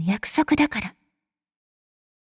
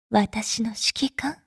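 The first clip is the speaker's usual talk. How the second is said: slow and softer, almost to herself; tender murmur; 5 semitones lower, 5 dB quieter, slower than usual. Acted. Goodnight to her sleeping commander, slow tender murmur. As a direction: murmur it so he stays asleep.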